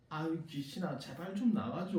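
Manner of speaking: soft, defeated begging; pleading. Retold or imitated. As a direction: beg weakly, drawing out the last word. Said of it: "간청하기 시작합니다".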